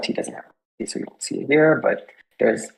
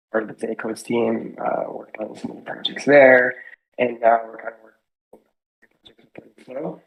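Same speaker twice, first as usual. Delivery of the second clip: choppy, dropping mic signal; breaking up over a bad connection; voice cutting out. Real, not acted. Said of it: "your voice is cutting in and out".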